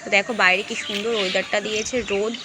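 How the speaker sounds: talking while brushing teeth. Real, not acted. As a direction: speak around a toothbrush. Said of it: "এখন একটু brush করছি".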